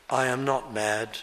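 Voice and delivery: measured, understated denial; calmly voiced, courteous reply; calm and polite. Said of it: "He says it calmly".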